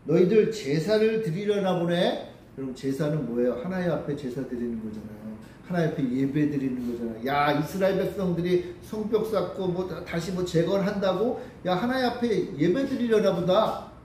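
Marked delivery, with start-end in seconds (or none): 0.1-2.3 drawn-out, lightly teasing taunt; mocking. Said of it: "뭐라고 조롱하냐면". 7.3-13.9 lightly taunting, lifting toward the end; deliberate mockery. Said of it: "일부러 이렇게 조롱을 하는 거예요".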